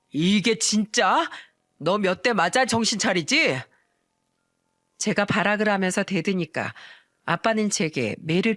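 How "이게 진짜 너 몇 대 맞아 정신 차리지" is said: dreigend en langzaam; slow menacing threat. Acted. Father threatening to hit.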